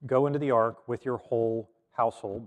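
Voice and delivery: God's commanding voice, lightly done. Shown as a demonstration. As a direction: order him onto the ark. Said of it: "in a commanding tone".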